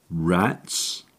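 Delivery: cold disbelief. Acted. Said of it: "voice was cold as the graveyard".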